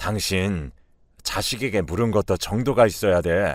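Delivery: ordinary delivery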